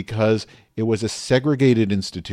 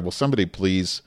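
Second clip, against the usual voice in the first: ordinary delivery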